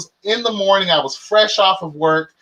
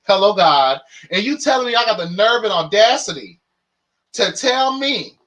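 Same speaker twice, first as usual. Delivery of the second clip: indignant rant; 4 semitones higher than usual. Retold or imitated. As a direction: let the outrage build and spill. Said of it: "I was like".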